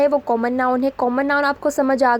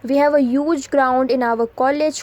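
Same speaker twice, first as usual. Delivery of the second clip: very slow, each word set apart; slow dictation read; much slower than usual. Shown as a demonstration. Teacher reading an example sentence to students, very slow. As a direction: spell it out slowly for the class.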